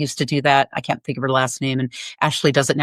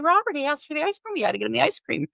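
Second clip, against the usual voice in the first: breathless excuse; 10 semitones higher, 5 dB quieter, faster than usual. Retold or imitated. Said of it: "it was just like".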